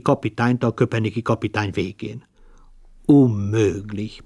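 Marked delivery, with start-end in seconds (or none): 3.1-4.2 growled. Acted. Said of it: "morogta anyám is".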